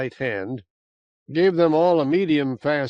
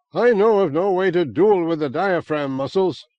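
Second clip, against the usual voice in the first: contemptuous; 4 semitones higher, 5 dB louder than usual. Acted. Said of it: "somewhat contemptuously".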